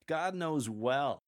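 slow "God knows well", pausing after "well"; slow, spaced phrase. Shown as a demonstration. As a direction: let each word land. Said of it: "Put small pauses between no and God, and after well".

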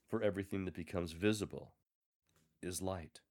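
measured instructive scripture reading. Shown as a demonstration. Lector modelling the instructional passage, thoughtful and measured. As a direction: read it as firm, thoughtful instruction.

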